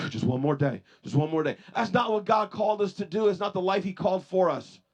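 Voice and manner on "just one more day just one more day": mock exhausted groan, one more day; weary sigh of a worn-down person. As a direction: drag it out like someone barely hanging on. Weary person repeats the line.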